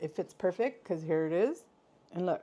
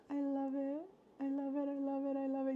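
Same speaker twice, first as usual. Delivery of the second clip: softly repeated; hushed; 5 semitones higher, 7 dB quieter than usual. Real, not acted. Vlogger cradling the gift, repeating softly. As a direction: murmur it over and over, moved.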